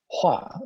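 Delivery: 划 starts high and drops sharply; fourth tone hua. Shown as a demonstration. Teacher models fourth tone 划 before 计划. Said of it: "And our fourth tone".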